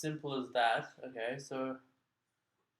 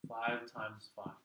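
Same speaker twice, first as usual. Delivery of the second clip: slow; 3 semitones lower, 4 dB quieter, much slower than usual. Shown as a demonstration. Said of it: "what we mean when we say".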